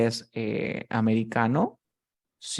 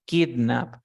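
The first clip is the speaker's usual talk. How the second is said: put-on "kidnap" stressed on KID; first-syllable stress. Shown as a demonstration. Teacher shows student the example, "kidnap" stressed on KID. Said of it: "La fuerza de voz está al inicio".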